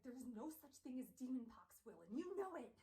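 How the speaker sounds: exasperated scolding. Acted. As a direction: tell him off, fed up. Charlotte scolds Will.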